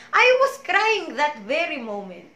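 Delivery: real tears while telling; crying now. Real, not acted. Testimony to the congregation, really crying. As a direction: let the tears come as you speak. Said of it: "like now".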